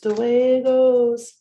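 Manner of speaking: drawn-out shrugging emphasis; slow loud resigned shrug; slow loud punchline. Real, not acted.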